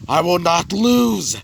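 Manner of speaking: slow, high shout of defiance; acted battle cry. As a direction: draw it out as a hammed-up war cry. Charging fighter's defiant battle cry.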